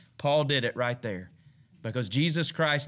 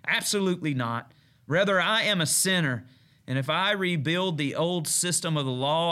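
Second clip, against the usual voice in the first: scripture reading; 2 semitones higher than usual. Acted. Reads Galatians as sermon.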